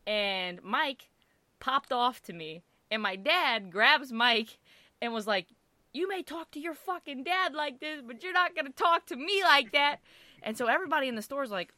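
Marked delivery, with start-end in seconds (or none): 5.9-10.0 mock-indignant dad, higher pitch; acted angry scolding. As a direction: act out a dad telling off a cousin. Angry dad scolding cousin in retold quarrel.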